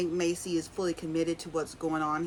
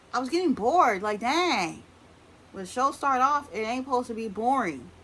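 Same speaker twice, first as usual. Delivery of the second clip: louder, higher frustrated complaint; exasperated rant; 5 semitones higher, 5 dB louder than usual. Real, not acted. Vlogger ranting to viewers about a dull episode. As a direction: vent about a boring premiere. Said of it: "I almost turned off the show".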